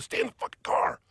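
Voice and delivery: retold frantic whisper; urgent whisper. Kid ordering his friend to stay inside, scared whisper. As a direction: hiss it under your breath, scared. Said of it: "they're very scared".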